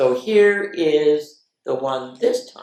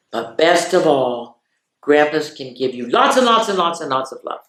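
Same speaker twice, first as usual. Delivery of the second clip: gentle storybook read-aloud with pauses; reading to children; 4 dB louder than usual. Acted. Reading picture book to children.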